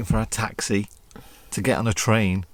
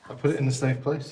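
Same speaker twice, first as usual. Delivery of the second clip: whisper; 4 semitones higher than usual. Real, not acted. Whispering in dark hotel.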